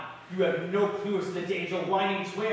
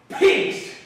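angry outburst; 6 dB louder than usual. Acted. Outburst insulting the nobles.

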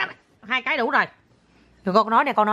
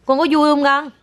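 giọng nựng con; 6 semitones higher, 4 dB louder than usual. Real, not acted. Mẹ hỏi con nhỏ.

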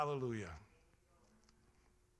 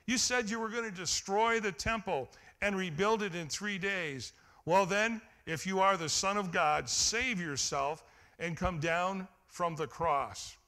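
mock yell. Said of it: "shouted abuse".

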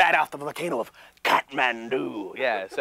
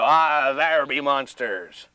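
slow pirate voice; slower than usual. Shown as a demonstration. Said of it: "You can go".

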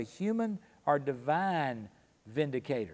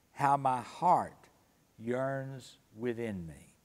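scripture reading. Acted. Reads Job's words from scripture.

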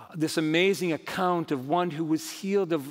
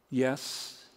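soft, lower-pitched answer; understated gentle affirmation; simple, sweet reply; 4 semitones lower, 6 dB quieter than usual. Retold or imitated. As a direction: answer with quiet, unhurried assurance. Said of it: "one of the sweetest, most succinct responses".

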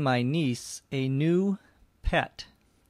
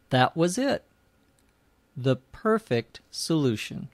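story narration. Acted. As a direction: read the tale clearly for language learners. Reads a story for learners.

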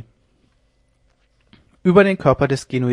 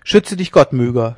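crying out; 7 dB louder than usual. Acted. Jan Norris crying out to Myga, loud cry. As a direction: cry out to protect her. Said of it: "schrie Jan Norris".

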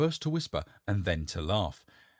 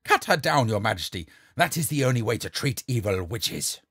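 louder, pressing command; urgent shouted order; 6 dB louder than usual. Acted. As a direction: urge the king to act now. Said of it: "he added".

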